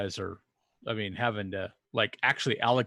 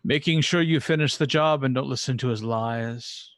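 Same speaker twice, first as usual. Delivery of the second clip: stern priest; 3 semitones higher, 5 dB louder than usual. Acted. GM answers as the Aeon Priest.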